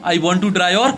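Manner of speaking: very slow, each word set apart; slow dictation. Shown as a demonstration. Teacher reading the letter line to students, very slow. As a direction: dictate it so they can copy it. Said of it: "repeats dictation slowly".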